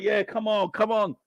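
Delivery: mock excited fans. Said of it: "They're like".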